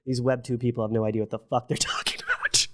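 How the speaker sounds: whispered, conspiratorial dig; whispered scoff. Retold or imitated. Quoting his own weekend brain scheming, in a whisper. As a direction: hiss it like a secret. Conspiratorial aside about Web2 people.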